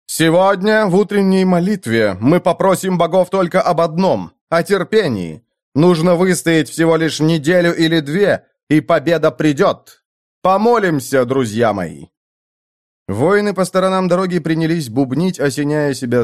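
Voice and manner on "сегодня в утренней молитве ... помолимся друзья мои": a lord's rousing speech to troops; commanding count. Acted. Count leads prayer to troops.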